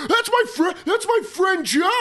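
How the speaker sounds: high, excited pointing at the TV; excited shout. Retold or imitated. Bragging to restaurant crowd about friend on TV, excited call-out. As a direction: yell it proudly at the screen.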